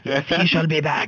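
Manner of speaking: hammed-up solemn promise; mock-solemn proclamation. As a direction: declare it like a tongue-in-cheek prophecy. Mock-solemn announcement of return.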